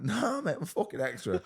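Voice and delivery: high, loud giggling confession; cracking up while owning it; squealing with laughter, I'm just an extra; laughing admission. Retold or imitated. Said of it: "I'm like".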